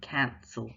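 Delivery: "cancel" with a big, open first syllable; "cancel" slowly demonstrated, stress on CAN. Shown as a demonstration. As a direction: lean on CAN in "cancel", let the second syllable shrink. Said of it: "there's a bigger movement".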